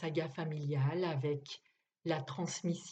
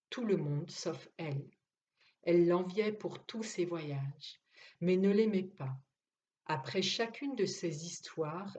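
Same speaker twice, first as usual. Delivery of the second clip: story narration. Acted. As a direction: let the words land, with pauses between the clauses.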